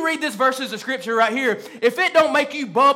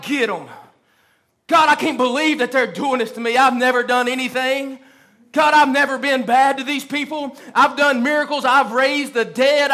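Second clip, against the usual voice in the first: mock aggrieved complaint. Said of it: "I would have been there myself".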